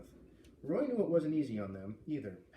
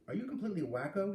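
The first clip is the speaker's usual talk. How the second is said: snapping; 6 semitones higher than usual. A narrator's reading. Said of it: "he snapped at her".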